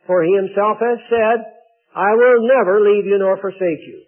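measured, declarative Bible reading; scripture reading. Acted. Preacher reading Hebrews to the congregation, formal scripture reading. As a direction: read the verses out firmly to a congregation. Reads a Bible passage aloud.

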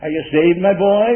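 the milder way of asking, still projected; an easy, friendly question from the pulpit; nice and easy. Shown as a demonstration. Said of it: "wouldn't say it very nice and easy".

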